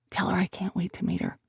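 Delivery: soft whispered reply. Acted. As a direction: hush it back to him. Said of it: "I whispered back".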